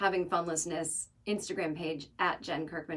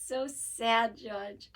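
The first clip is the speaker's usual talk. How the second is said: slow, lightly mimicked mournful mother; sad mom impression; 3 semitones higher, much slower than usual. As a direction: draw it out in mock sorrow as mom. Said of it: "She was sad that he was dead".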